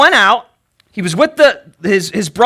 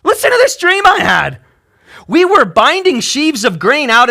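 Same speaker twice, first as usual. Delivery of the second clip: a lightly voiced clueless younger brother boasting; smug Joseph; 3 semitones lower than usual. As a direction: brag about the dream with no social sense. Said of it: "Joseph is not real socially aware".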